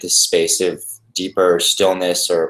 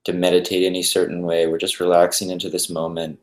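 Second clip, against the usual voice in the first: calm, even meditation guide with long pauses; unhurried, settled guided-meditation voice. Acted. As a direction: ease listeners into stillness, leaving space between phrases.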